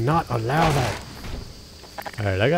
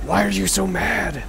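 high-pitched plaintive protest; mock-hurt whine; 9 semitones higher than usual. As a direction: plead as if wounded, playfully. Mock-hurt plea to game character.

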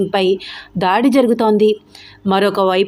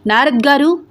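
raised rising summons; shouted call; 5 semitones higher than usual. Acted. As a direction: call him out sharply across the office. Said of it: "గట్టిగా అరిచాడు విక్కీ".

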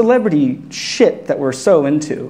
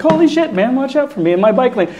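startled yell; 11 semitones higher than usual. Retold or imitated. Near miss with bus on bike.

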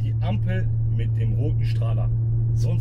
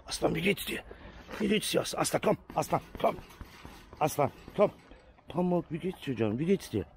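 cooing to cats; 3 semitones higher, 5 dB quieter than usual. Real, not acted. Coaxing the cats.

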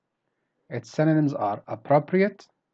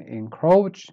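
"encroach" with a loud second syllable; weak then up; 3 semitones higher, 6 dB louder than usual. Shown as a demonstration. Teacher modelling word number ten, "encroach" stressed on the end. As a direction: start "encroach" weak, rise on "croach". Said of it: "Start weak and then you go up".

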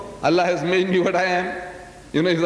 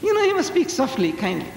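timid brethren mocked; 3 semitones higher than usual. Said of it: "they say".

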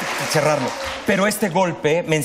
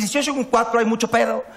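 higher, light and amused; playful contentment; 7 semitones higher than usual. Retold or imitated. Telling the audience he is fine being a four. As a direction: shrug it off happily.

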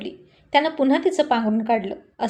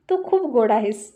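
tender. Acted. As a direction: tell her lovingly, taking your time. Husband tender to wife.

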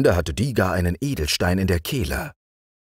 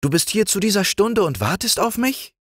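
very high astonished frog voice; the green frog, astonished and high; squeaky frog caught off guard; surprised green frog. Acted.

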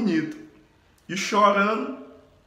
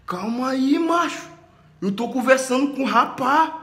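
firm rebuke; 5 semitones higher than usual. Retold or imitated. Whindersson ordering his bodyguard to let go, firm higher voice. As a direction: raise the voice to back the bodyguard off. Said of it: "O Whindersson Nunes disse pro segurança dele".

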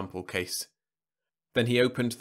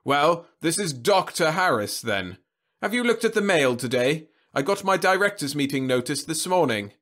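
savage; 7 semitones higher, 7 dB louder than usual. A narrator's reading. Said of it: "The voice was savage".

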